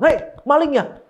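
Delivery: mock alarmed shout. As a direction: call out the thief, playfully. Acting out catching a thief. (seruan kaget pura-pura)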